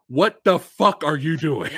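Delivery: loud frustrated viewer outburst; exasperated yell. Acted. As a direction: yell it at the movie screen, slowly. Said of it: "yell at the screen".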